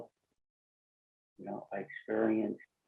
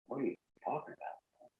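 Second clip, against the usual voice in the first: breathy, bewildered whisper of disbelief; stunned whisper; 3 semitones higher, 11 dB quieter than usual. Retold or imitated. Hairdresser staring at the speaker, whispering in confusion. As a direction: voice her baffled thought under the breath. Client's stunned look, imagined thought.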